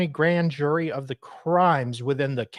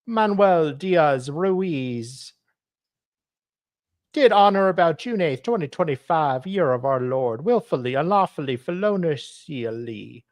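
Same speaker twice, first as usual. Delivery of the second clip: put-on Hispanic accent. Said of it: "I'm trying to do a Hispanic accent".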